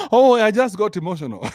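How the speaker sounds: mock excuse. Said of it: "women use that excuse".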